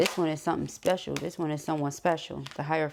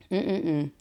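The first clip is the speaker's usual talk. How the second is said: usual speaking voice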